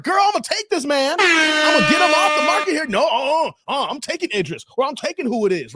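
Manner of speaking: mock-thrilled woman claiming her guy; eager girlfriend. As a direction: gush like a woman grabbing her man. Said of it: "No, you're like".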